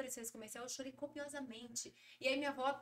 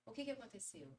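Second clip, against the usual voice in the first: pergunta curiosa; 6 dB quieter than usual. Retold or imitated. Filha questionadora imitada.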